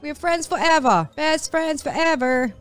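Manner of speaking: high, sweet cooing voice; high cooing voice for a tiny pet; baby talk. Pretend. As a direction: woo the mouse as a new friend. Befriending the mouse.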